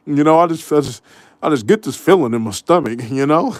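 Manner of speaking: imitating emotion, laughter creeping in; giggly mock sentimentality; mock choked up. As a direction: stammer a fake tearful confession, tickled. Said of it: "every time you get choked up".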